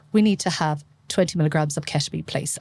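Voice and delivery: even, composed closed-loop request; cool, calm, collected. Shown as a demonstration. Doctor leading resus instructs a colleague, cool and collected. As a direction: state it calmly and plainly, no fuss. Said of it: "I am a very cool".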